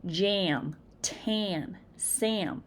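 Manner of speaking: can, jam, tan, Sam with nasal Massachusetts vowels. Shown as a demonstration. Teacher demonstrates Massachusetts dialect words. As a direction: say them the Massachusetts way. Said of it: "in Massachusetts, we say".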